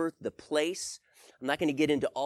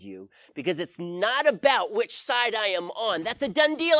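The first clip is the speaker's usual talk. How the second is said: raised, direct rebuke from God; a stern voice of God, built to a loud close; firm God; 4 semitones higher, 5 dB louder than usual. Retold or imitated. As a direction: speak as God setting him straight, loud and sure. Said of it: "He was so firm with me".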